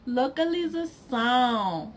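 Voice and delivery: "localização" ending in a nasal "ão"; nasalized ending. Shown as a demonstration. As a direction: send the final "ão" of "localização" through the nose. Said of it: "it'll tell you to nasalize".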